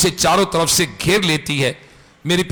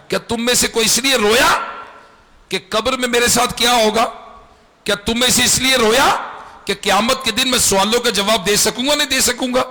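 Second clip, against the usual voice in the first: higher-pitched rhetorical questioning; indignant reproach; 5 semitones higher, faster than usual. Retold or imitated. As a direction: challenge them, pitch held high. Dying man reproaches weeping family. (उलाहना भरे ऊँचे सुर में सवाल)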